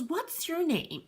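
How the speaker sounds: put-on high, slow little girl voice; little girl asking. Kid at the party asking the host's name, high and slow. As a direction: ask it like a curious little kid. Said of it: "She goes".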